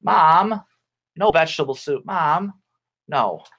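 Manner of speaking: mock whine of a child to mom; complaining child. Child refusing soup from mom, mild mock complaint.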